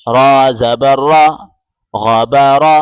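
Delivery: रा said thick and full, with the mouth rounded; teacher showing the heavy ra. Shown as a demonstration. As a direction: make रा heavy and stressed. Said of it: "रा को मोटा पढ़ना है".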